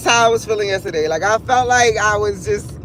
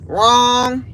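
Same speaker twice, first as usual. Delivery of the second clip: mock villain cackle around the word; gloating, hammed-up laugh; taunting heartbreak. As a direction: laugh in the victim's face. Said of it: "smack you in your face like".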